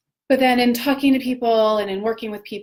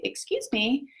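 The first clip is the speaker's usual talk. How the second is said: higher, pointed excuse me; mock parental correction; 6 semitones higher, 4 dB quieter than usual. Mother correcting a demanding child, a pointed excuse me. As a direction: prompt the child to say please. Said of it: "And I'll say".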